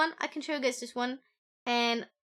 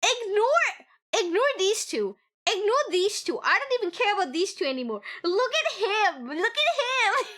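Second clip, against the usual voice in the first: mock fangirl gushing; 6 semitones higher than usual. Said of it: "I'm like".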